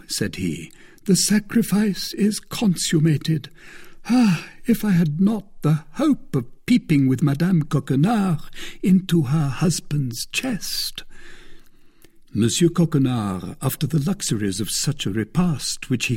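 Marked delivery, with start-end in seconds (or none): 1.1-11.0 a higher, louder voice for the smug musketeer; Porthos, self-satisfied. Acted. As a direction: play Porthos, pleased with his own scheme. Porthos quoted in the story.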